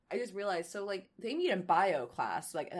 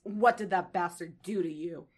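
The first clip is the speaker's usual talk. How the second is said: growling; 5 dB louder than usual. Acted. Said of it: "She growls".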